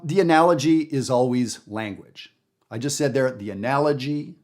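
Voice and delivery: analogy with the stress on the second syllable; natural stress. Shown as a demonstration. Jazz teacher models analogy with its natural stress. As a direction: say analogy the normal way, stress on -nal-. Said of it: "I didn't say analogy".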